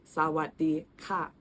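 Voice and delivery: 'Sawatdee ka' slowly, syllable by syllable; slow model pronunciation. Shown as a demonstration. Teaching hello with the polite particle, slow demonstration. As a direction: say Sawatdee ka slowly for learners to copy. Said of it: "you can say".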